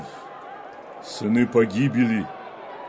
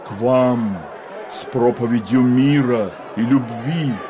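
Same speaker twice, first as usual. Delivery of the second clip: rising, thundering rebuke; prophetic denunciation. Acted. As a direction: denounce the people like a prophet.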